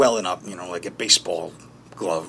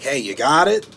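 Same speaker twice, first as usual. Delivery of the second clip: calling out; 3 semitones higher, 6 dB louder than usual. Acted. Brother entering the room behind him, calling out. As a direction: call over to check on someone. Brother's call acted in monologue.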